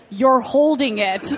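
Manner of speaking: slow, pointed imitation of a brother; unimpressed, drawn-out retold reply; deadpan brother. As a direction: spell out the obvious, very slowly. Brother states the obvious, retold.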